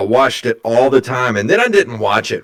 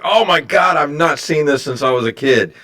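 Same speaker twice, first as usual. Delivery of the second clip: mildly excited retelling, pitched up at first; retold excitement; 4 semitones higher than usual. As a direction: relive your excitement, higher on the opening words. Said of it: "I was so excited".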